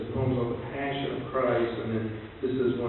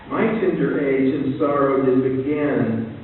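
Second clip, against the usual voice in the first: louder, slowing, grave recital; poem reading; 3 dB louder, slower than usual. Acted. Lecturer reciting the stanza, slowing gravely to the end. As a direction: read it down to its thinnest.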